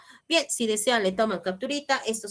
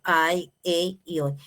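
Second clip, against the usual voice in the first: slow spelled-out endings; 3 semitones lower, slower than usual. Shown as a demonstration.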